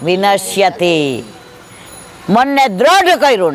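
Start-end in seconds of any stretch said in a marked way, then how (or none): 0.0-1.2 slow scripture recitation. Retold or imitated. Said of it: "ગીતાજીમાં ભગવાને કહ્યું છે".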